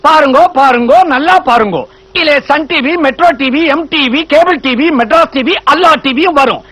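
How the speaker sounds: lightly voiced roadside showman's pitch; a touch of sing-out street-show spiel; street showman patter. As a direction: hawk it like a street performer, in a rhythmic list. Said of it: "நடு ரோட்ல வித்த காட்டுற மாதிரி கத்துறானே".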